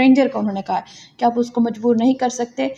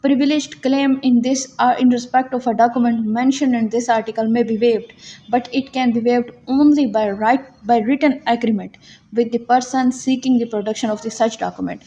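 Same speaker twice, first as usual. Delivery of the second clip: reads the English law text slowly, word by word, as if for dictation; measured, slow legal reading for students to note down; slow statute reading; much slower than usual. Shown as a demonstration. Reads the English commentary aloud. (धीमे-धीमे, लिखवाने के अंदाज़ में कानून पढ़ना)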